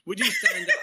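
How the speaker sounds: light hint of an American accent, rising to a laughing call; quoting her American voice lightly, then laughing. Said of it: "in that lovely American accent".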